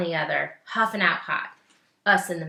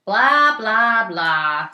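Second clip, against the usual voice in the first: chattering lady; 2 semitones higher, 11 dB louder, much slower than usual. Acted. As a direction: ham up the gossiping lady. Grown-up ladies' chatter voiced.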